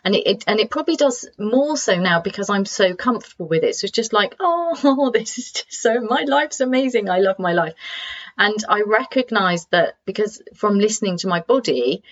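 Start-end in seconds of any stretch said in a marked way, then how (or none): 4.4-7.7 acting out a high, gushing "oh" of joy; lightly acted rush of joy, starting high; overwhelmed with joy. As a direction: imitate being swept away by how lovely life is. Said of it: "being overwhelmed by the joy of the world".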